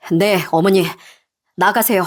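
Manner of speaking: husband's composed dismissal; cold, level command. Acted. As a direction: send your mother out, coolly. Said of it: "남편이 냉정하게 나가라고 하니".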